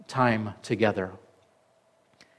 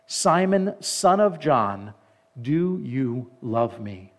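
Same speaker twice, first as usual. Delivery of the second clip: scripture reading; 2 semitones higher than usual. A narrator's reading. Reads scripture aloud to congregation.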